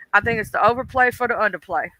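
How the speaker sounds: quick, laid-back cool delivery. Shown as a demonstration. Streamer mocking the beefing couple, in a cool voice. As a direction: toss it off coolly and a little fast. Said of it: "I'm gonna do it in my cooling voice".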